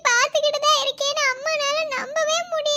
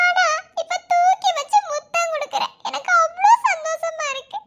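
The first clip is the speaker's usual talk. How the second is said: joyful laughing; 3 semitones higher than usual. Acted. Mother kisses her babies.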